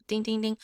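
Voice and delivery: DING held high and level like a bell. Shown as a demonstration. Teacher illustrating the tone, high bell-like DING. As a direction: ring out each DING on one high note. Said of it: "make a high bell tone".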